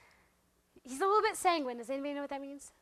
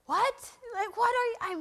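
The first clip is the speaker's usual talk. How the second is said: retold confusion; 8 semitones higher, slower than usual. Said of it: "I'm sick of saying what".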